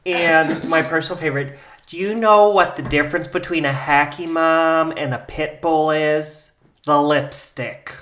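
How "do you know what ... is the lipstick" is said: lightly imitated politician; Sarah Palin. Cohost's favorite phrase, light politician impression. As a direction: politician telling her joke, slow on the punchline. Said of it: "Sarah Palin with certain phrases".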